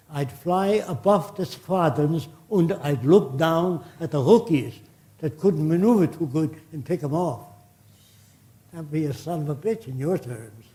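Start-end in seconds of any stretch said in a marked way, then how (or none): 0.1-7.5 put-on German accent. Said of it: "He said in a heavy German accent".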